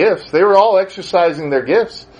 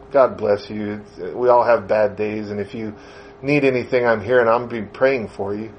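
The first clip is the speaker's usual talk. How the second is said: lower, softer words of comfort to a friend; quietly supportive, retold; 7 semitones lower, 4 dB quieter than usual. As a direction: gently reassure a friend. Comforting a friend having a bad day.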